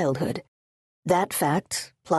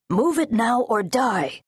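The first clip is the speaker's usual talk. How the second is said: higher, contained yell; yelled threat; 5 semitones higher than usual. Acted. Front guards threatening those blocking the road, contained yell. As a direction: threaten them with a raised-pitch yell. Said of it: "The front guards yelled".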